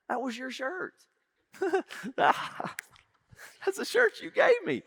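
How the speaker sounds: breaking into laughter on the reveal; laughing reveal. Retold or imitated. Uncle laughingly tells nephew it was his shirt. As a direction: let the laugh take over. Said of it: "I said".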